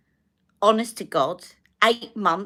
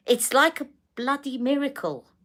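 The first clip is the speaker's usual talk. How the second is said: laughing; 8 semitones higher than usual. Real, not acted. Laughing at recovery.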